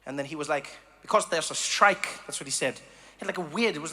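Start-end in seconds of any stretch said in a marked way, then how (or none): 1.0-2.1 put-on Dutch-like accent. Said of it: "like, Dutch, but it wasn't Dutch accent".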